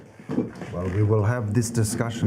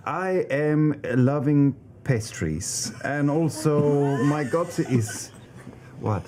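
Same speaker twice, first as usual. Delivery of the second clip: imitating a castmate; 5 semitones higher than usual. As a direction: drag the words out in her voice. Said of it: "Do gesture".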